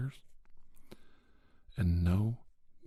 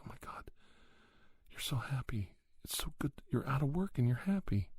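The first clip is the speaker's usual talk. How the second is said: retold amazement; 5 semitones higher than usual. Wife's amazed reaction retold.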